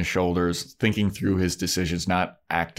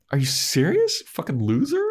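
higher, half-crying mock outrage; mock outraged girlfriend; 9 semitones higher than usual. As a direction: ham up a whiny, offended insult. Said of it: "she's not like that".

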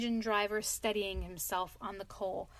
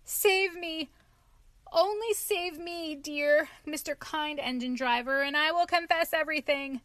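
high, loud, pleading cry; desperate plea; 6 semitones higher, 5 dB louder than usual. A narrator's reading. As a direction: beg the engine driver for rescue.

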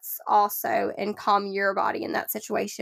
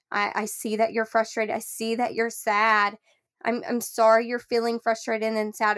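soothing empathy. Shown as a demonstration. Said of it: "talking him through it".

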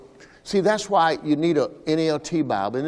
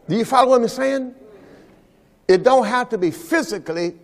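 rising preaching fervor; 4 semitones higher than usual. Real, not acted. Preacher building to fervent climax.

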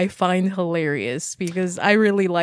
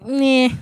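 dismissive meh; 5 semitones higher, 4 dB louder than usual. Retold or imitated. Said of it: "like that sound".

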